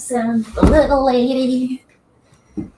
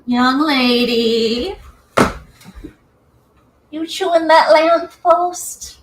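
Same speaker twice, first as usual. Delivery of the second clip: talking to a pet; slower than usual. Real, not acted. Talking to her pet chinchilla.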